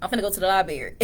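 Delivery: "library" said as "lie-berry"; casual country talk, "library" without its first R; countrified pronunciation. Shown as a demonstration. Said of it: "I just been countrified".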